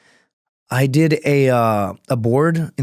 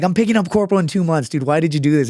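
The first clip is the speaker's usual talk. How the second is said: higher-pitched retold complaint; mock pleading protest; 5 semitones higher, faster than usual. Marine asking his platoon why they did it, retold aggrieved protest. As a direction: protest to your buddies, pitched up.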